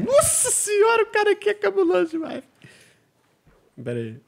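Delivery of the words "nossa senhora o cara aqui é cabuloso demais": amazed exclamation. Real, not acted. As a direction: stretch out the wonder. Amazed at friend's parkour.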